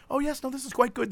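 merely content, fast and understated; mildly satisfied. Retold or imitated. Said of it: "It's not like they're just satisfied".

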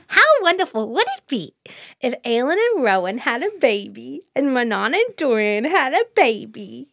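swooping, sing-song daydream; mock-dreamy gushing. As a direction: gush it like a lilting fairy-tale wish. Dreamily gushing over imagined babies.

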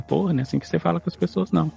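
offended assistant. Retold or imitated. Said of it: "ela ia falar".

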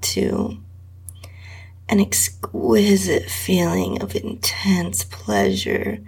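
intimate breathy whisper throughout; whispered erotic reading. A narrator's reading. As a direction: read it close to the mic, barely voiced. Erotic story read in whisper.

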